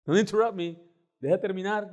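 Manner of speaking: high, loud mock reprimand; insistent rebuff. Pastor stopping an interrupting American, loud insistent rebuff. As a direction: firmly claim the floor. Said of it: "Porque me quería interrumpir".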